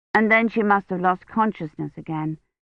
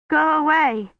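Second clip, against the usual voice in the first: higher, shivering go away; a feverish girl pushing a stranger off; frightened plea; 8 semitones higher, 3 dB louder, slower than usual. A narrator's reading. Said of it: "her teeth chattering so hard".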